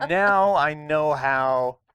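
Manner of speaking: laughing through a mock boast; grand claim broken by laughter. Real, not acted.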